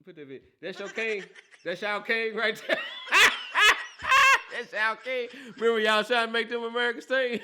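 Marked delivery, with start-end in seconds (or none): 1.6-2.8 teasing call-out broken by laughter; laughing taunt. Real, not acted. Host taunting Cowboys fans about their king, laughing. 2.8-4.5 loud, high-pitched burst of laughter; high cackling laugh. Real, not acted. Host laughing at Cowboys fans, loud high cackle. 4.5-5.3 teasing call-out broken by laughter; laughing taunt. Real, not acted. Host taunting Cowboys fans about their king, laughing.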